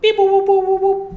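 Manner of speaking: very high robot beep-boom sounds. Pretend. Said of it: "Je suis un robot".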